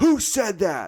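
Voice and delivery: mock, shrill yell pitched very high. Retelling yelling at the sidelines after someone criticized a call, retelling a yell. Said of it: "I pretty much yelled at the side".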